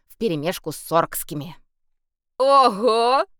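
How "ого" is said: high, loud impressed "ого"; be amazed at the cursing; loud impressed exclamation; impressed whistle-ogo. A narrator's reading. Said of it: "присвистнул вампир".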